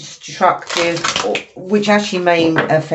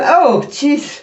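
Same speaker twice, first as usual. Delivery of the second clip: pre-sneeze gasp; 11 semitones higher, 4 dB louder than usual. Real, not acted. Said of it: "I think I'm gonna sneeze now".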